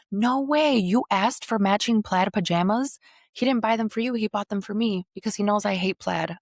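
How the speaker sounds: put-on a rival girlfriend jeering in outraged disbelief; incredulous outrage. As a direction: play the shocked rival girlfriend. Quoting other girlfriend, outraged.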